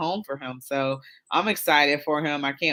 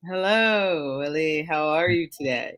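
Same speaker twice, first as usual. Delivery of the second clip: robot voice. Real, not acted. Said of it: "Why do you sound like a robot?".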